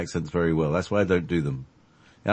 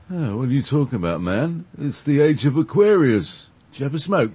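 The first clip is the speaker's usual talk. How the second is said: put-on hippie American accent; 5 semitones higher than usual. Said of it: "with a great accent like this".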